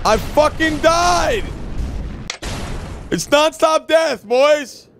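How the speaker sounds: frustrated shout. Real, not acted. Dying in game, yelling.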